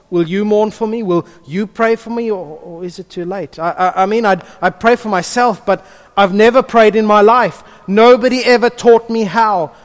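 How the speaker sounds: rising high and loud with panic; scared astronaut. Acted. Pastor acts Sandra Bullock's character facing death, frightened. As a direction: plead with God as the fear builds. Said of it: "forgive the lack of accent".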